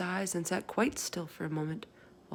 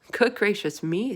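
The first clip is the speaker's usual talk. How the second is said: hushed amazement; 3 semitones higher, 7 dB louder than usual. Acted. Sophie amazed.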